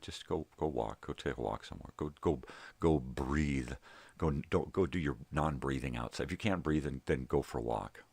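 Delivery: retold shouted orders. Retells ordering coworker home.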